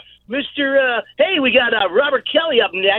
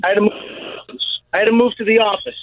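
winded, talking between breaths; real breathlessness after moving; much faster than usual. Real, not acted. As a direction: catch your breath as you explain. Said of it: "Why are you out of breath already?".

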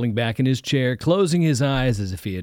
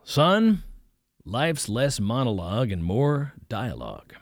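lightly voiced preacher; 2 semitones higher, slower than usual. Preacher correcting the boy's monologue, slow and knowing. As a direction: deliver the wisdom slowly, a little amused.

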